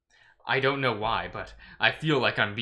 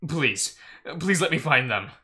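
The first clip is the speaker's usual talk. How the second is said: voiced, higher-pitched desperate plea; praying out loud in desperation; pleading whisper; 6 semitones higher, 3 dB louder than usual. A narrator's reading. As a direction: beg under threat, pitch lifted. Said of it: "I whisper to myself, to God".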